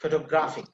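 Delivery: Photographic with "GRAPH" stressed; stress on third syllable. Shown as a demonstration. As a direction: put the weight on "graph" in Photographic. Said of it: "the stress is on the third syllable".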